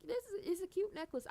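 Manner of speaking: high gushing squeal; mock high girly gush; own gushing reaction. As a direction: squeal over the necklace. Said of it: "I was like".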